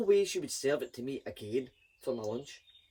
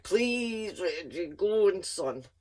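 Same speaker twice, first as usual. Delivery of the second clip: begging mother; 4 semitones higher, 4 dB louder, much slower than usual. Retold or imitated. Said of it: "she began to beg".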